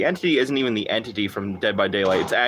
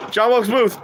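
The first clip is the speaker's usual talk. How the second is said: a mock-solemn announcer voice, higher and louder; hammed-up presidential voice; joke Lincoln impression; 10 semitones higher, 5 dB louder than usual. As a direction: boom out the name like a joke punchline. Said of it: "Here, I'll do my Lincoln impression".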